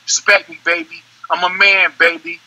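lightly imitated rapper's line; measured, understated rapper impression. Shown as a demonstration. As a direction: give it a hint of the rapper's delivery. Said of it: "L L, L L".

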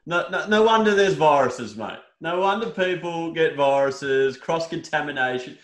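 outraged rant. Real, not acted. Outraged rant about feathered chicken.

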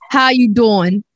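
drawn-out American sitcom pickup accent; Joey. Shown as a demonstration. Co-host demonstrating the catchphrase, American sitcom flirt accent. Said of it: "You have to do it for me".

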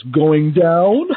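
mock pickup line. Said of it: "he goes".

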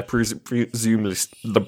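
holding back a burp mid-sentence; burping the words. Real, not acted. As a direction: talk through a rising burp. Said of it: "there's a burp coming".

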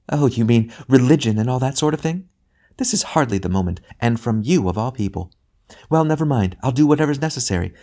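lightly voiced, brisk and dismissive mother; impatient ghost mother. A ghost mother pushing her brother to let her see her son, impatient. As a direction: hurry him along, fed up.

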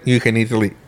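stifling a hiccup. Real, not acted. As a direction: hiccup cuts the word off. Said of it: "sorry, I had the hiccups".

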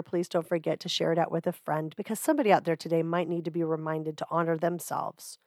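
stuffy nose. Real, not acted. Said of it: "my strange, stuffy nose, gravelly voice".

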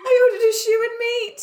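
high, shouted through laughter; laughing shout. Real, not acted. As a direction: crow it out in disbelief.

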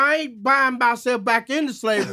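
half-laughing indignation; indignant retelling. Retold or imitated. Retells indignant call to the bank.

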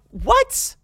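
high, incredulous squeak of a question; shocked what. Retold or imitated. Retelling the friend's message, a stunned high what. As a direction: disbelief jumping right up.

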